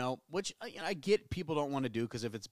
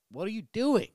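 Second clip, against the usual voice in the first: much higher, louder, incredulous repeat; exasperated outburst; 11 semitones higher, 10 dB louder than usual. Retold or imitated. Refusing the old lady's wafers, high loud exasperated cry. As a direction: blurt it out, high and loud in disbelief. Quoting himself to old lady.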